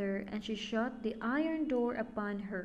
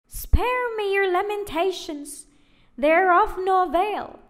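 high, loud, scornful witch voice; 9 semitones higher, 11 dB louder than usual. A narrator's reading. Witch silencing Gretel's crying, high and loud. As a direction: cut her off like a heartless witch.

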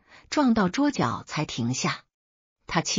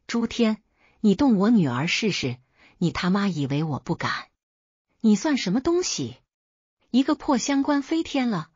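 uncle's thundering challenge, pitch rising higher; booming voice; 3 semitones higher than usual. Acted. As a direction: roar it at the father, full chest. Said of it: "声若洪钟". (声若洪钟地怒喝)

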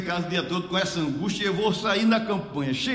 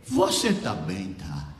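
slow, low, frail sickbed voice; trembling sick woman; 10 semitones lower, slower than usual. Retold or imitated. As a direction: imitate a weak old woman, sinking in pitch. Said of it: "ela tava tremendo".

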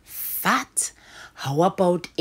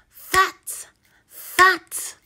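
high bright teacher voice on fat; chirpy high phonics voice; high sing-song blend; 12 semitones higher, 6 dB louder than usual. Shown as a demonstration. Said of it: "teacher blends word, sing-song high".

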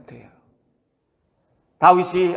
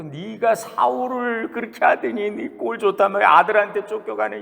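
mocking curse; 4 semitones higher than usual. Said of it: "온갖 더러운 말로 저주를 퍼붓고".

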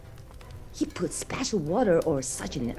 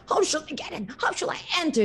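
higher, puzzled wolf musing; scheming wolf; 9 semitones higher, much faster than usual. Acted. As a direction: wonder aloud slyly. Wolf plotting.

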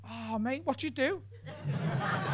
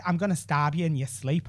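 mock soothing Irish; 6 semitones lower, 10 dB quieter than usual. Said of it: "and that sounds soothing".

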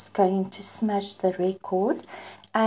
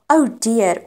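exclaiming; 4 dB louder than usual. Shown as a demonstration. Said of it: "some people say".

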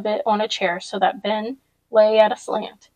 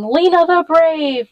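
higher, louder, slow proud yell; 7 semitones higher, 6 dB louder, slower than usual. A narrator's reading. Boy yelling praise right into his friend's ear. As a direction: shout it right in her ear. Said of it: "June startled her by yelling".

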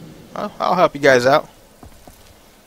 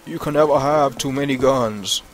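deliberate quote. Real, not acted. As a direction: deliver "too many guns" as a measured, weighty maxim. Repeats the saying as a quote.

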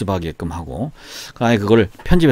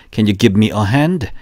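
slow, even repetition drill; 2 semitones lower, much slower than usual. Shown as a demonstration. Teacher leading a three-times repetition drill slowly. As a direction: say it slowly for students to copy. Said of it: "세 번 시작".

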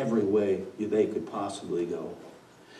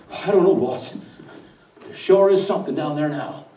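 sheepish wind; 4 semitones higher, 4 dB louder than usual. Acted. Wind answering boss.

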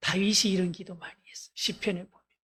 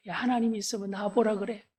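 mock taunting; 2 semitones higher, 4 dB louder than usual. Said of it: "하나님을 막 비아냥거려".

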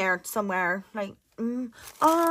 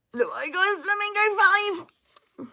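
higher, slow, delighted; 9 semitones higher, slower than usual. Real, not acted. Showing viewers her new flamingo stickers, delighted. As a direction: savour it with delight.

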